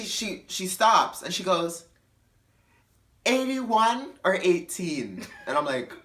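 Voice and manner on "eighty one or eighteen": higher, slow puzzled question; drunk confusion. Retold or imitated. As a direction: ask it dead seriously.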